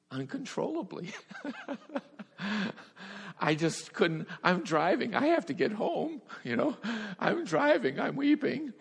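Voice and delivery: high, laughing disbelief at his own tears; laughing through it. Real, not acted. Preacher recalling weeping at the wheel, laughing high. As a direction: laugh helplessly while recounting the weeping. Retelling weeping uncontrollably while driving.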